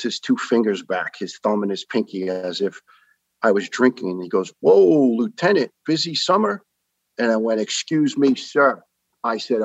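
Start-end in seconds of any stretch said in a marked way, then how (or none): 4.6-6.6 high-pitched mocking doctor imitation; teasing insinuation. Doctor hints lieutenant was drinking, teasing insinuation. 7.6-8.8 higher, indignant retold reply; offended. Lieutenant answers doctor's drinking hint, offended.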